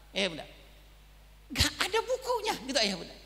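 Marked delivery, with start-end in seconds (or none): 1.5-2.8 high, strained and close to crying; near tears. Real, not acted. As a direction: hold back the tears as you say it. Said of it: "Mau nangis".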